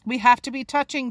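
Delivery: yelled. Acted. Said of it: "Tilly yelled".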